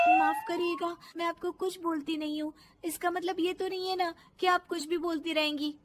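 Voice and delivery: indignant protest. Acted. Daughter-in-law answering her scolding mother-in-law, indignant. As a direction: stand up for yourself.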